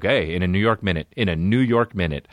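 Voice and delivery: mom saying her catchphrase, not sung; spoken mock-sage motherly saying; spoken mom imitation. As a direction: lightly imitate a mom's pet saying. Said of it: "not the singing way".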